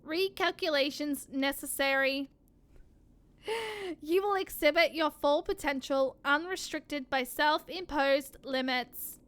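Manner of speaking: even, mechanical robot voice. Acted. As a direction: speak like a cold machine. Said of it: "constantly doing the robot voice".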